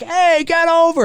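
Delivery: high barked order from the trucker; trucker's order. Retold or imitated. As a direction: snap it at him like a bully. Trucker barking at Kurt Russell.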